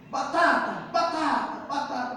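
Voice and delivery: half-hearted imitated yell; imitated angry outburst. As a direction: imitate a child's curse-like outburst. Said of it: "ele grita".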